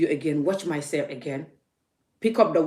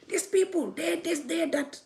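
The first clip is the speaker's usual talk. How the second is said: high, giggling fake friendliness; mock giggly caller; 11 semitones higher than usual. Vlogger mimicking a phone caller's giggling flattery. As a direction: play a two-faced fan all sweetness. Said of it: "be like".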